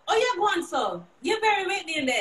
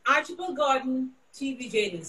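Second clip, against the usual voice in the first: broadcast sign-off voice; 3 semitones lower, 3 dB quieter than usual. Shown as a demonstration. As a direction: give a crisp news sign-off. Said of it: "Sign out for me".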